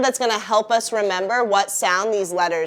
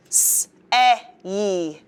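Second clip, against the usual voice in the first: whispered spelling. Shown as a demonstration. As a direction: whisper the letters S-E-Y. Teacher spells the letters aside.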